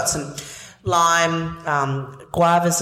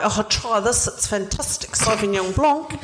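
put-on a light Kiwi accent, raised pitch; New Zealand accent; 5 semitones higher than usual. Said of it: "my, my New Zealand accent".

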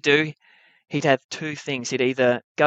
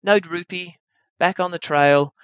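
mild gentle urging, a little higher; gentle coaxing; 5 semitones higher than usual. Retold or imitated. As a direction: coax a big cat back calmly. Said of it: "pull on the rope gently and say".

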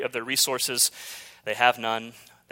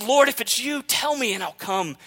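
calling out; 6 semitones higher than usual. Acted. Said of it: "calls out and he says".

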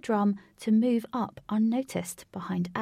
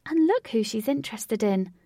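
gleeful; 3 dB louder than usual. Acted. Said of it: "said Katie with glee".

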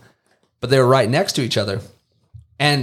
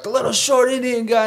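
high caricatured voice describing someone; lightly hammed-up Southern worker; mock good old boy; 12 semitones higher than usual.

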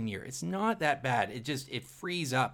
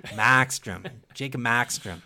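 bad Boston accent; 5 dB louder, slower than usual. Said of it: "that's also a bad Boston accent".

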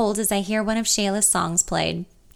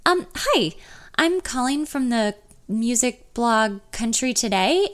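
higher, hesitant and slowed start; nervous caller; 3 semitones higher than usual. Acted. Narrator posing as a blogger on the phone, nervous. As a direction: nerves tight, easing into the lie.

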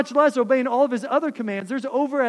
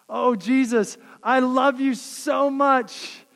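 gushing prayer; 3 semitones higher, 4 dB louder, slower than usual. Acted. Voicing a gushing half-hearted believer.

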